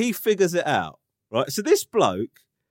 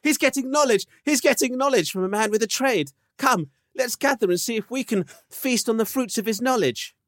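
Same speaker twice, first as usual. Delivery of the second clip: lightly raised, pompous mock proclamation; a hint of a ceremonial herald; lightly pompous call to gather; mock grand announcer; 5 semitones higher than usual. Mock grand voice about dad.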